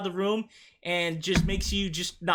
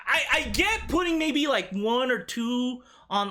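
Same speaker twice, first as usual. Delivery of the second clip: worked-up rant; 5 semitones higher than usual. Real, not acted. Ranting about her many earrings.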